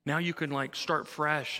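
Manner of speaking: mild retold sigh of relief; lightly voiced relief; relieved. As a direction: act out being glad it's over. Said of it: "then I felt relieved".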